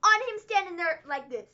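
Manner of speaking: a fan scolding WWE over a wasted star; incredulous rant. Real, not acted. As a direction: squeak it out in outrage. Ranting at WWE.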